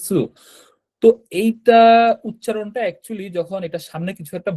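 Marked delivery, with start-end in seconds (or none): 0.1-0.2 সু with tongue tip against the teeth. Shown as a demonstration. Teacher demonstrating to learners, সু off the tongue tip. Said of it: "দাঁতের মধ্যে একটু লাগিয়ে বলতে হবে".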